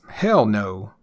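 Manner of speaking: "hell" hit hard, "no" dropping low; stress on hell. Shown as a demonstration. Answering an invitation to go skydiving, stress on "hell". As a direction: punch "hell", let "no" fall away. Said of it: "emphasis on that first word".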